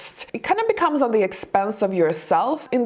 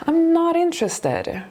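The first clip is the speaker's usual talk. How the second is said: higher-pitched, lightly acted polite refusal; kindly firm; 7 semitones higher than usual. Charlotte turning down the creep, kind but firm. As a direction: turn them down kindly, with compassion. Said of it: "you know, kindly".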